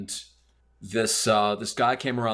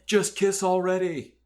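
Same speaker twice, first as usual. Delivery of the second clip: a much higher, teasing call of Just kiss already; mock yell from the crowd; 10 semitones higher than usual. A beach bystander teasing two squaring-off men, high mock yell. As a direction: call out like a girl on the beach heckling. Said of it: "this girl yells out".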